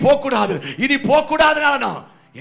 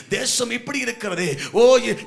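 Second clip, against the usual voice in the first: usual speaking voice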